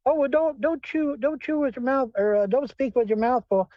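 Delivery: high prissy scolding, hammed up; mocking nagging voice. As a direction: mimic a fussy table-manners nag. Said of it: "That's what they sit there cracking me up".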